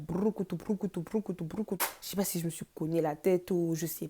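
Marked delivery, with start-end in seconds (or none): 0.0-1.8 tumbling sound effect. Retold or imitated. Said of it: "j'ai fait une roulade".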